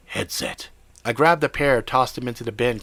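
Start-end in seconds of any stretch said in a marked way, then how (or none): 0.1-0.7 growled. Acted. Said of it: "Jimmy growled".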